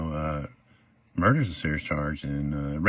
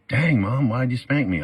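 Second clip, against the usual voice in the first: put-on whiny kid; 5 semitones higher than usual. Kid asks mom why she spanked him, mock whiny. Child voice in mama analogy.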